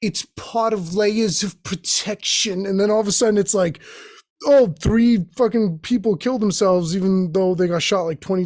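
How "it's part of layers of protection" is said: slow, measured mock official voice; Fauci impression. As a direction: deliver it like a defensive official. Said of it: "And he's like".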